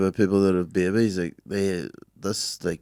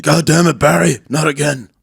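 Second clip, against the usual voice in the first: higher, louder, hammed-up groan at Barry; mock exasperated shout; 8 semitones higher, 7 dB louder than usual. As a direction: exclaim like a let-down fan.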